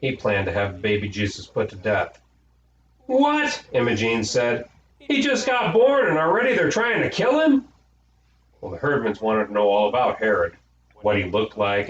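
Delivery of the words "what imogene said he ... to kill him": shocked outrage. A narrator's reading. Girl horrified that they want to kill the baby. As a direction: shriek it in horror at the news. Imogene shocked at Herod's plan.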